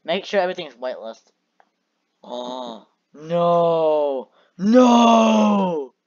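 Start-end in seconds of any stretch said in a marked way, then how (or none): 2.2-5.9 loud alarmed cry; shouting no. Real, not acted. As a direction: yell it out in alarm. Sudden interruption, shout.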